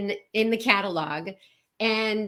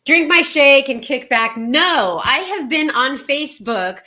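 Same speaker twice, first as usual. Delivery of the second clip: excited laughing; 2 semitones higher, 8 dB louder than usual. Real, not acted. Cohost bursts in, laughing.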